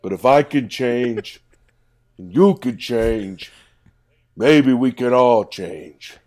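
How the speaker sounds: loud, rousing pep talk; rally the crowd like a fired-up coach; big inspirational address to the cats; inspirational speech. Acted. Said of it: "He's being inspirational".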